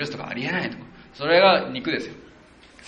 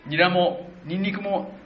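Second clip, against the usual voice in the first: whiny wail; 7 semitones higher than usual. Retold or imitated. Israelites craving Egypt's food, high whiny mock lament. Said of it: "大声で泣いて、うわ、言ったんですよ".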